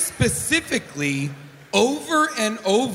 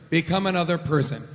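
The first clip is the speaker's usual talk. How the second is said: quick, lower chant-like repeat; fast low mantra; 5 semitones lower, faster than usual. Shown as a demonstration. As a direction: rattle it off like a mantra. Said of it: "I understand Energico to work like this".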